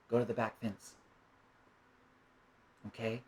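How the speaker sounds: put-on calm the angry child softly; soothing parent. Parent calmly answering angry child.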